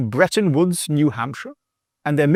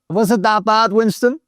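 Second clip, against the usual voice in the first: higher-pitched pet talk; 4 semitones higher than usual. Real, not acted. Host checking with the complaining dog Winston, higher-pitched pet talk. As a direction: ask it like you would a dog.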